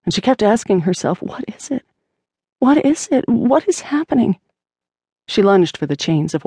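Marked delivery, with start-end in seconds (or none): 1.2-1.8 frightened whisper. A narrator's reading. Panic rising, repeated question. 2.6-4.4 panicked. A narrator's reading. Panic rising, repeated question.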